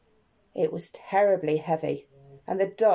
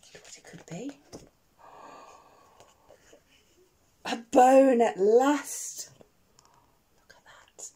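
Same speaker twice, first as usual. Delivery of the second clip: suspense whisper; 3 semitones higher, 4 dB louder, slower than usual. Acted. Reader whispers to the child at the big find, hushed. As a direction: hush it like a secret discovery.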